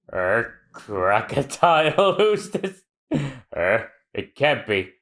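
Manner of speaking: awed townsfolk. Acted.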